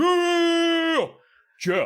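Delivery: very high, loud whooping cheer; victory yell. Acted. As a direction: yell your own name in triumph. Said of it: "He's just like".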